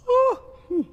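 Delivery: big, high open-mouthed yawn, then hum. Pretend. Children's leader setting the kids yawning, high voiced yawn. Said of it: "I start yawning".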